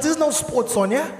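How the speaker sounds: usual speaking voice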